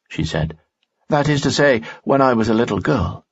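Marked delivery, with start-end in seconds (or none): 1.1-3.3 higher young woman's voice, lightly voiced; worried young woman, pitched up; Dina's voice. Dina speaks in story.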